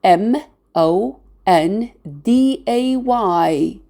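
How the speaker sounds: M O N D A Y, one letter at a time; M, O, N, D, A, Y as separate letter names; spelled letter by letter. Shown as a demonstration. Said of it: "We spell Monday as".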